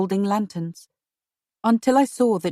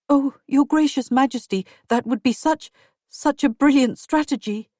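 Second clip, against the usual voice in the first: higher, eager thanks; eager gratitude; 5 semitones higher than usual. Acted. Wife thanking the Queen for her brother, higher and eager. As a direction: gush your thanks to the Queen.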